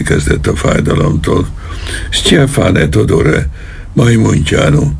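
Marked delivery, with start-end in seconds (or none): 2.1-4.9 high, slow desperate shout toward the door; yelling for help. A narrator's reading. Colonel yelling to his men through the door, desperate high shout. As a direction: call the names out at full stretch. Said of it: "üvöltött elkékülve az ajtó felé".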